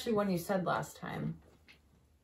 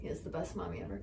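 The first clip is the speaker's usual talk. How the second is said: whisper; 12 dB quieter, faster than usual. Real, not acted. Praising the cat softly.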